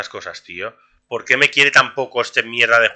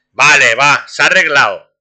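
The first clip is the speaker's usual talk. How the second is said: louder, higher burst of relief; excited relief; 3 semitones higher, 7 dB louder, slower than usual. Real, not acted. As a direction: announce it's fixed with a cheer. Relief as server gets fixed.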